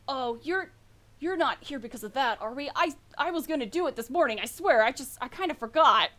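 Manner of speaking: hurried, stumbling mild excuse; a touch of guilty husband; sheepish. Acted. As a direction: own up sheepishly, tripping over the words. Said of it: "sort of look sheepish".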